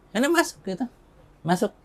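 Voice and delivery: high-pitched quoted order to enter; acted mother's command. Mother to son at the door, high acted command.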